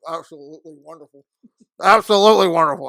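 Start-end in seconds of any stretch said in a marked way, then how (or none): 1.8-2.9 much louder, mouth full; loud emphatic praise. Real, not acted. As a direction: belt out absolutely wonderful. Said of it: "I'm sorry eating a mouthful".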